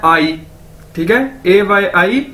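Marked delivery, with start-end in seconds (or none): 0.0-0.4 "आई" like the English word I; careful teacher's "आई"; demonstrated pronunciation. Shown as a demonstration. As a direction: model "आई" lower, as one word. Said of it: "pronounce कैसे करना है".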